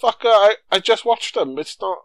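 loud, high-pitched mock outrage; indignant viewer talking back, half amused; exasperated retort. Viewer snapping back at a film's needless recap, exasperated.

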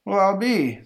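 high, loud amazed exclamation; astonished crowd member. Acted. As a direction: exclaim like a stunned bystander. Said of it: "says a member of the crowd".

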